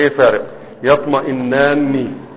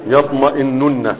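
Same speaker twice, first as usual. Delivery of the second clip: يطمئنن said slowly with the doubled نّ held; slow model; 5 dB quieter, slower than usual. Shown as a demonstration. Teacher modelling يطمئنن slowly for pupils to repeat. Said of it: "انطقوها".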